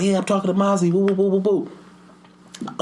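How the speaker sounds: high-pitched mock kid rant; hammed-up schoolboy squabbling; imitated arguing boy. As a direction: mimic a child's yammering, high up.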